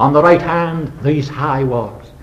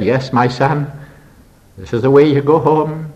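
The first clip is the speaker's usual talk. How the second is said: solemn. Retold or imitated. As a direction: say it gravely and gently. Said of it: "and solemnly I said".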